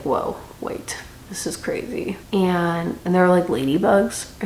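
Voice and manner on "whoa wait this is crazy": breathy, hushed whisper of surprise; hushed amazement. Retold or imitated. Haymitch finding the force field, a hushed, amazed whisper. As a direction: whisper it, awestruck at the discovery.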